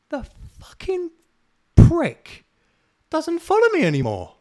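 high, loud, fed-up outburst; indignant rant. Real, not acted. Ranting to listeners about the unfollow, high and indignant. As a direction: spit out the insult high and hard.

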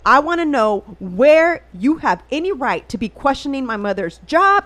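slow, emphatic mock demand; retold going off. Retelling demand to officer questioning mother's job, firmly indignant. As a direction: spell out your indignation, leaning on the words. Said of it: "going on and on about it".

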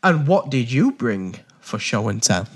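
slow, drawn-out host read; game show voice. Acted. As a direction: announce it like a quiz host. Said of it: "is that your game show voice".

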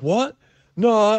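high, incredulous retold denial; quick high-pitched mock bafflement; mock disbelief. Retold friend denies the accusation.

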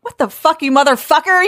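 high-pitched indignant retort; retold, moderately heated cursing; angry outburst. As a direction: act out her outrage at him. Acted angry reply in fight.

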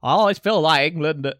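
hammy Scottish pundit impression; Scottish accent. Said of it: "this is my Scottish accent, it's so bad".

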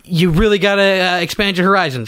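put-on American accent. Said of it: "let's do this all American real quick".

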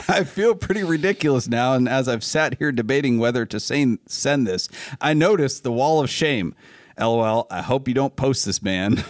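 put-on email read in a light Southern accent. Host reading a fan's email to friends, light Southern accent. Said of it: "reading this in a Southern accent".

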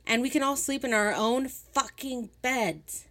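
shrill, loud, furious outburst, slowing toward the end; raging. Acted. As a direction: scream it at them so someone outside hears. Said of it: "Rage boiled up in her face".

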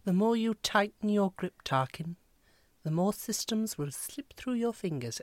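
lightly imitated English accent; measured princess line with a hint of put-on English accent; Princess Leia. Friend imitating the princess talking to Tarkin, light English accent. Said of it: "best impression of Princess Leia".

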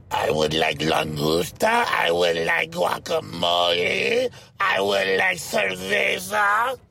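slow, drawn-out words with rising ends; mock talking-down, every word stretched; condescending slow English. Shown as a demonstration. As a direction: order as if to someone who barely understands. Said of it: "Again, this is the condescension".

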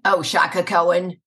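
Brooklyn character accent; New York accent. Shown as a demonstration. Guest doing her New York character on request, Brooklyn accent. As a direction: put on a Brooklyn voice. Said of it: "do the New York one".

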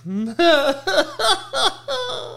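high, wheezy run of laughter; real laughing fit. Real, not acted. Comedian cracking up at his mom impression, helpless high laugh. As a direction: crack up helplessly at your own bit.

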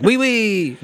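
high-pitched cartoon French squeal; stereotype French accent. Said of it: "do an impersonation of the French".

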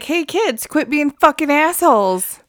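high mock call to the kids; imagined scolding coach. Coach to the tennis boys, mock scolding. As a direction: play a coach telling kids off. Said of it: "The coach should have been like".

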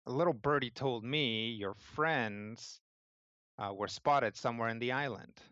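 mildly stern, measured woman's voice. Acted. Woman pressing Pixel about his friends, mildly stern. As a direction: question him with understated sternness. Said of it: "sounds pretty stern".

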